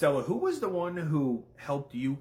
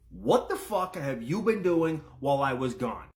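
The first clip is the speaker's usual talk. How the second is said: angry queen; 3 dB louder than usual. Retold or imitated. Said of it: "I'm assuming she's gonna say".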